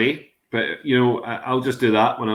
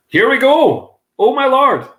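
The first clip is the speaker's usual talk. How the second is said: excited; 12 semitones higher, 7 dB louder, slower than usual. Real, not acted. Excited as guest joins.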